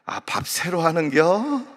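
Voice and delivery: slow, sly Chungcheong complaint; Chungcheong dialect. Retold or imitated. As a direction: grumble politely at the owner's back in Chungcheong dialect. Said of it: "뒤에다 대고".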